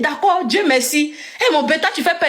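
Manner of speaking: high-pitched, acted-out excited reaction; amazed friend. Friend reacting to news of the papers, retold amazement.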